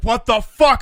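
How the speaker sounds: loud, high horrified outburst; retold appalled shout. Retelling shock at overhearing mom, appalled shout. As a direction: exclaim it, appalled, for the story.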